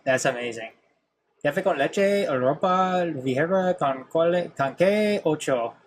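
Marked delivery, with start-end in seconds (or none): 1.4-5.7 stumbling try at a Spanish accent; self-conscious American Spanish accent; Spanish accent attempt. Shown as a demonstration. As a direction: sound out Spanish without rolling the R's. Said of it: "my Spanish accent".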